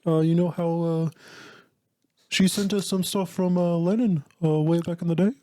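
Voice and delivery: lightly voiced British musician, hesitant; a mild put-on rock-star voice, slightly halting; a famous singer. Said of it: the speaker said he would play that singer.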